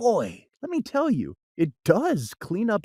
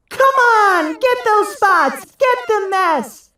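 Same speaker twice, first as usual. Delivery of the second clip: much higher, louder rallying yell; cats yelling; 13 semitones higher, 8 dB louder than usual. Acted. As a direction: cheer the team on as tiny cats. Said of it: "yelled the cats".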